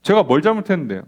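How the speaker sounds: "제가" stressed in a pushy comeback; defiant retort. Retold or imitated. Person talking back to a critic, defiant. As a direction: snap back with a falling "제가". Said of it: "우리는 뭐라고 한다고요?".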